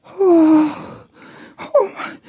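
high, halting mock gasp of wonder; stunned amazement. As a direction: imitate someone stunned, high and hushed at the end. Stunned woman after prayer.

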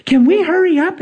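retold impatient demand; imitated impatient lady. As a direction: play a pushy, huffy customer. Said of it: "she's being mean".

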